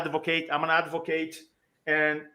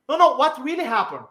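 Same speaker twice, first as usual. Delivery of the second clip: incredulous question, higher and louder with a laugh; laughing disbelief; 8 semitones higher, 4 dB louder than usual. Retold or imitated. Retelling the nurses' laughing disbelief at the recovery. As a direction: play the nurses doubting it with a chuckle.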